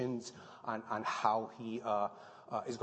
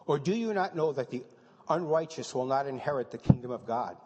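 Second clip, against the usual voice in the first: reading as question; 6 dB louder than usual. Shown as a demonstration. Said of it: "that's not only a question, that's a statement of fact".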